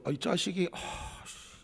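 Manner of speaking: muttered curse. Retold or imitated. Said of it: "제가 한번 욕할게요".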